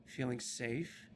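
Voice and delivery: put-on a lost child reciting what happened, distant; lightly voiced haunted child speaking for the group; eerie child recounting.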